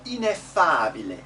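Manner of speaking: teacher projecting "Ineffabile" in clear Italian; open and closed e. Shown as a demonstration. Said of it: "open and closed E".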